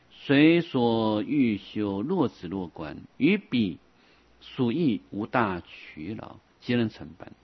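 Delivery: slow, measured recitation of a classical text; deliberate phrase-by-phrase sutra reading; scripture reading. Acted. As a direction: read the scripture out with drawn-out syllables. Reads out scripture.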